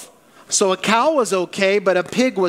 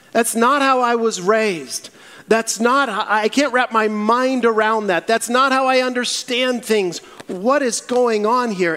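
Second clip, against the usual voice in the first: raised, insistent disbelief, acted out; indignant protest; 5 semitones higher than usual. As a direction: protest like a baffled Peter. Voicing Peter's bewildered protest to God.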